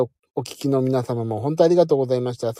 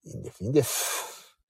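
a soft whispered never mind; whispered refusal; 9 dB quieter than usual. Real, not acted. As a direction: whisper it's fine, twice. Humbly waving off thanks.

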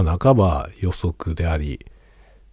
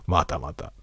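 hushed mock doubt; 5 dB quieter, slower than usual. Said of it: "またって感じよ".

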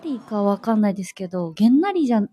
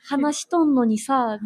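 drawn-out imitation of Hiroshima dialect; 3 semitones higher, slower than usual. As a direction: echo the Hiroshima dialect, slowly. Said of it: "広島弁が聞けてさ". (広島弁をゆっくり真似て)

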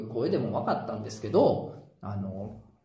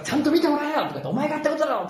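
indignant husband; 11 semitones higher, faster than usual. Retold or imitated. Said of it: "旦那さんが".

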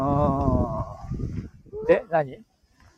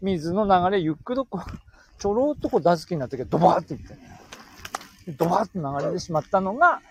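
Tsugaru dialect; faster than usual. Acted. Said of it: "変な声が。".

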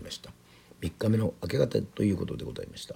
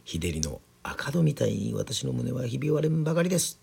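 higher-pitched lament, lightly acted; anguished old woman; 6 semitones higher than usual. A narrator's reading. Old woman's lament quoted in story.

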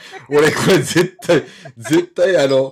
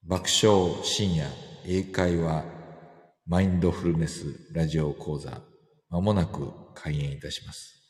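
announcer voice; 8 semitones lower, 8 dB quieter than usual. Pretend. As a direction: read it like theater staff. Mock venue announcement again.

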